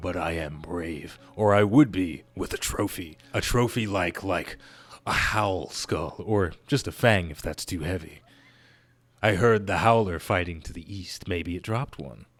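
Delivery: clumsy, fumbled, unconvincing character voice. Voicing a character's lines aloud, in a butchered Mok the Brave voice. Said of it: "I absolutely butchered that voice".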